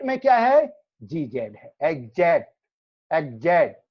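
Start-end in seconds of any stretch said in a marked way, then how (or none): 1.8-3.8 एग्जैक्ट with a voiced "gz"; GZ sound. Shown as a demonstration. Teacher demonstrating the sound, एग्जैक्ट with clear "gz". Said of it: "जी जेड का sound है".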